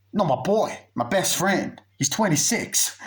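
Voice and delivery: high-pitched, worked-up mock insistence; insistent friend. Friend correcting whoever heard "son", high and insistent. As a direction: act out an exasperated friend, pitched well up.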